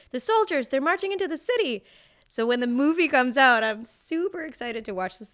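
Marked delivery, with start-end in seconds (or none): 0.1-1.8 higher, louder announcing of the line; acted film line. Actor recites his one film line, higher and louder. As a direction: deliver it like a dramatic movie line. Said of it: "And I'm supposed to say".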